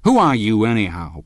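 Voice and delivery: loud, sharp challenge; angry outburst. A narrator's reading. Husband rounding on rival, loud and angry. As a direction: burst out at him. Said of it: "broke out Tom".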